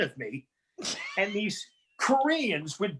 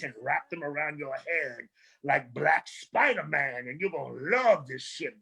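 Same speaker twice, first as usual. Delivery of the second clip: raspy seductive voice. Retold or imitated. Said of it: "raspy African black voice".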